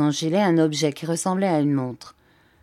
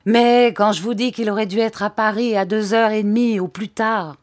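angry; 4 semitones higher, 4 dB louder than usual. Acted. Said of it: "eut un geste de colère".

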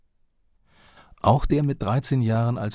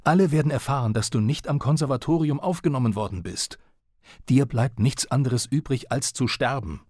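read-out father's rage; 5 semitones higher than usual. Retold or imitated. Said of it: "brüllte er".

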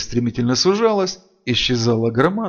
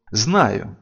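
angry; 4 dB louder than usual. Acted. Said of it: "зло перебил Фэс".

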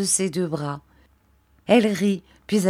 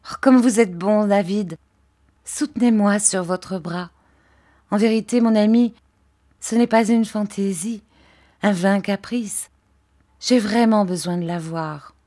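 pleading gently with her husband; Dora's voice; 3 semitones higher than usual. Acted. Dora thanks and pleads. (voix de jeune épouse, un peu plus aiguë)

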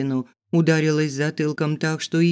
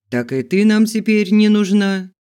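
rough voice; 6 semitones higher, 8 dB louder than usual. Acted. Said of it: "ответил грубый голос".

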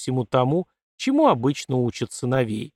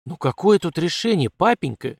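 rising, pleading near-wail, kept in check; almost howl it in despair; 5 semitones higher than usual. Acted. Daughter nearly wails at her father about marriage. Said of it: "чуть не взвыла Катерина".

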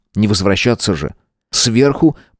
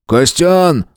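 mild call out; 7 semitones higher than usual. A narrator's reading. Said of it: "закричал он".

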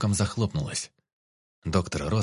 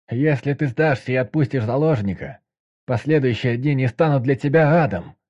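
loud negotiator; 5 semitones higher, 7 dB louder than usual. A narrator's reading. Negotiator through door.

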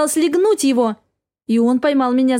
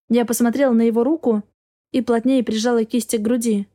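usual speaking voice

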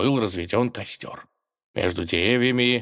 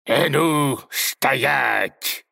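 loud, higher-pitched barked halt; shout; 6 semitones higher, 4 dB louder, much slower than usual. A narrator's reading. Robber halting the tsar on the path, shout. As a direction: call out a sharp command to stop. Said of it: "раздался крик".

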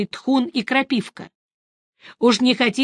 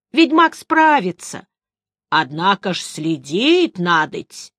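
put-on old woman voice. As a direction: read it like an old crone.

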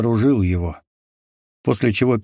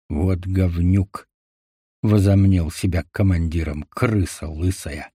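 lower, slow spiteful grumble; 4 semitones lower, slower than usual. A narrator's reading. Rzhavy grumbles spitefully behind the boss's back. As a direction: squeeze out the spite. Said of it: "Ржавый злобно выдавил из себя".

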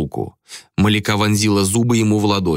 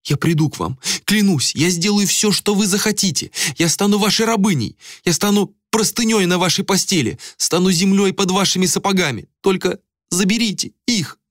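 high frantic begging; on her knees, begging; desperate pleading; 12 semitones higher than usual. A narrator's reading. Malika kneeling before Ader, begging, high and frantic.

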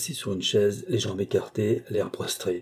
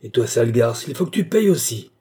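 roaring; 6 dB louder than usual. Acted. Young man to the murderess, roaring. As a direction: bellow the threat at her. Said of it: "rugit Maxime".

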